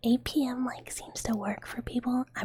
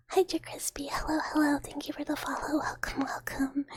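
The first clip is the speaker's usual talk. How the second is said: higher, cheery whispered welcome; bright greeting; 4 semitones higher than usual. Real, not acted. Streamer thanking a new follower, cheery higher whisper.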